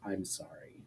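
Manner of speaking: barely audible breathy whisper; whispered apology. Acted. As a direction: breathe the words, almost soundless. Mouthed apology before blacking out.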